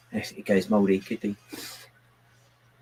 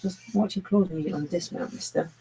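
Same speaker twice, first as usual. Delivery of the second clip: talking to a pet; 9 semitones higher than usual. Real, not acted.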